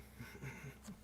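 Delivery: quiet voiceless laugh; soft chuckle. Real, not acted. Explaining own surname to a friend, soft chuckle. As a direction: chuckle softly at your own remark.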